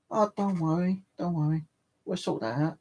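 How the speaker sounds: imitating gentle, soothing reassurance; reassuring supervisor. Supervisor calming a customer over a mistake, reassuring.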